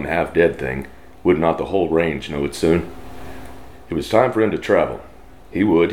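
steady storyteller reading; story narration. Acted. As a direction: read it like a campfire tale.

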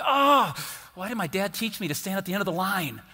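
hammed-up self-pity over missed pie; mock lament. Preacher missing the lemon pie, mock lament. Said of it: "And I was like".

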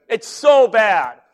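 mock martyr moan; mock suffering. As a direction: overplay the pain to get sympathy. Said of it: "the standing joke is".

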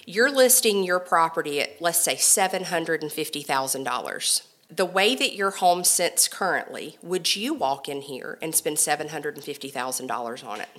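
kind, gentle straight talk, softening at the end; kindly. Retold or imitated. Stager asks a homeowner about their asking price, kindly. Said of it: "I say it very kindly".

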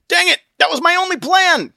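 high loud exasperated cry; Christian, frustrated. Acted. Christian pinned by Obstinate, exasperated. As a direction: wail at the failed plan.

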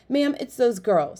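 high, pressing appeal; urgent boy voice. A narrator's reading. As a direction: urge the guard to help. Boy pleads with guard.

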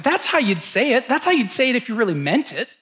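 lifted, eager repeat; fired up by a friend's words; retold enthusiasm; pumped up. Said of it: "That got me pumped up".

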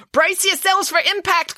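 high, slow warning call. Acted. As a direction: call out to everyone before the crash. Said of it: "called Finn".

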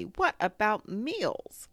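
high, slow, dismayed question; gloomy. A narrator's reading. Pooh worried about going hungry, gloomy. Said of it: "said Pooh gloomily".

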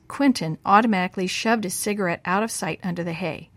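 ordinary delivery

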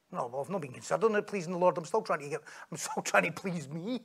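quietly owning up, embarrassed; sheepish admission. Retold or imitated. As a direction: mumble the excuse quickly under a laugh. Acting the sheepish reply.

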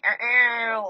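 playful high siren wail, ow ow; mock siren noise. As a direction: imitate a celebration siren, hammed-up. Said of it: "like, imagine sirens are going off".

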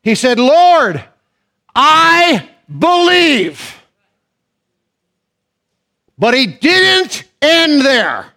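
high, loud preaching at full force; preacher lifting the congregation, loud and high; fiery preaching. Acted.

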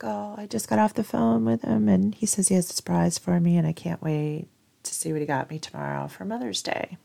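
mildly giddy, sharing news with coworkers; kind of excited. Retold or imitated. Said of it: "I'm kind of excited".

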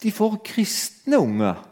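preacher's hammed-up impression of a mocking comic; mocking Ricky Gervais. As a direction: drag it out as if amazed, poking fun. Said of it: "han ler av alle religionene og sier".

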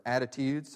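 "attitudes" set apart and emphasized; stress on ATTITUDES. Shown as a demonstration. Preacher pointing out one word to the congregation, emphasizing "attitudes". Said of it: "emphasize that word".

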